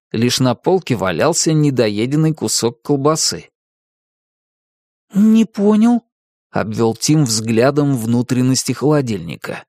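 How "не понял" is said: put-on high, puzzled boy. A narrator's reading. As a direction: sound baffled. Tim confused at fridge.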